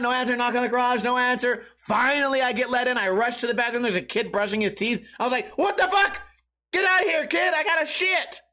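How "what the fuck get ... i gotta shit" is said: mock yell. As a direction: blast the kid out of the bathroom. Yelling at kid in bathroom.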